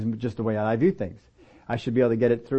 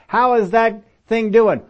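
a louder, slow asking voice; drawn-out concerned question from a friend; 9 semitones higher, 6 dB louder, slower than usual. Retold or imitated. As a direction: friend checking on an ailment. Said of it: "here's how we are talking".

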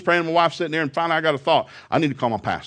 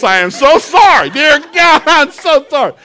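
much higher, loud cry of sorry; pleading, loud repentant prayer; loud repentance; 13 semitones higher, 12 dB louder, slower than usual. Retold or imitated. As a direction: cry out your apology to God. Repenting aloud to God.

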